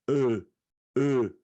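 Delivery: "ê" said with a closed vowel; closed Portuguese ê. Shown as a demonstration. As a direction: hold a closed "ê" on its own. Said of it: "ela tem um som".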